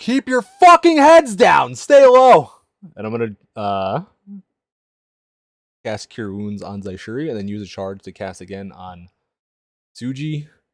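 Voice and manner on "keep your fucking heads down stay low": slow, full-volume scream. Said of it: "I just scream".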